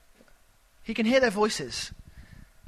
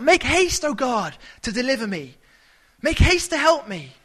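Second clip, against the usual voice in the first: urgent cry; 4 semitones higher than usual. Retold or imitated. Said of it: "the urgency as he cries out".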